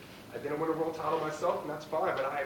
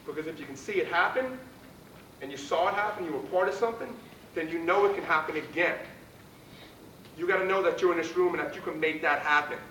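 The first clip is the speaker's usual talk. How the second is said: pep talk; 4 semitones higher, 3 dB louder than usual. Real, not acted. Pre-game pep talk to team.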